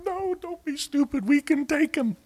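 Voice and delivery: high, strained protest; urgent protest. Retold or imitated. Caleb and Joshua rebuking the fearful spies, high protest. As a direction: cry it out in disbelief at their fear.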